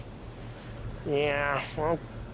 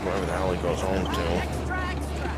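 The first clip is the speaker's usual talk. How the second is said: put-on slurred, drunk and rambling; 6 semitones lower than usual. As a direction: talk like a drunk getting maudlin. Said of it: "Paulie, you're drunk".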